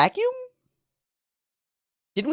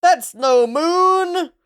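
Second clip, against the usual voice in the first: slow, higher awestruck movie line; dramatic movie quote; 9 semitones higher, 4 dB louder, much slower than usual. Pretend. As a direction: deliver it like the famous film moment. Repeats quote dramatically, slow, high.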